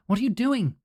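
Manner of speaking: high, loud demand; doctor bursting in, shouting. Acted. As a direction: yell it across the room. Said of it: "he shouts at Kym".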